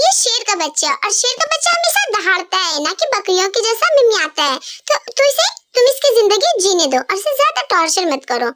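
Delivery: ordinary delivery, nothing marked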